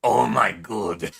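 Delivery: loud, slow oh my god; shocked exclamation. Real, not acted. Streamer reacts loudly to the game. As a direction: blurt it out in shock.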